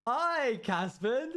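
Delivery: high-pitched drawn-out hello; high sing-out greeting to an animal; pet greeting. Real, not acted.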